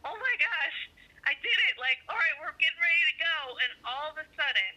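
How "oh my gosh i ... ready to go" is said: higher, pleased-with-yourself recap; mildly giddy, raised pitch; retold excitement. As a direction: act out a small triumph at being ready. Retelling her excitement at being ready.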